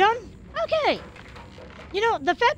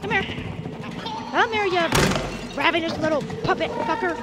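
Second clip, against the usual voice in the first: higher, angry snarl at the enemy; real gamer aggression; aggressive; 3 semitones higher than usual. Real, not acted. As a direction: spit it out like you want it dead. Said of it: "Do I sound aggressive? Yes, yes I do".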